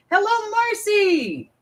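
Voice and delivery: slow, high pet voice; the cat saying hello. Pretend. Voicing the cat greeting a viewer.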